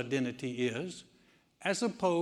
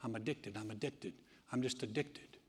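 much softer, sinking into a mopey murmur; mock defeated addict; 3 semitones lower, 7 dB quieter than usual. Preacher mimicking a hopeless churchgoer, soft and defeated. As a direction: play the hopeless addict, fading away. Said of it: "Some people say".

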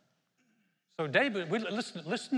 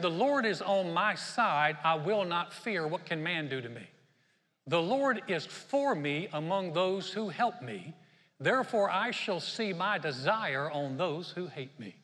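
slow, measured reading of a psalm; scripture reading; slower than usual. Acted. Preacher reading Psalm 118 to the church, measured scripture reading. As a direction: read the verse with weight. Reads scripture aloud slowly.

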